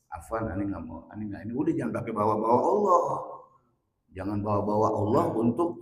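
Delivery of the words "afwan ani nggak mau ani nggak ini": low, soft put-on Arabic-flavoured refusal; a hint of a sanctimonious refuser; mock pious mumble. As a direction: mumble the excuse like a prim pious type. Mimics pious-sounding refusal.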